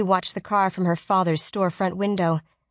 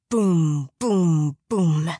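booming; 3 dB louder, much slower than usual. A narrator's reading. Giant footsteps sound out.

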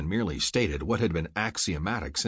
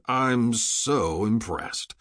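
sneering sarcasm; 2 semitones higher, much slower than usual. Acted. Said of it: "Rourke sneered".

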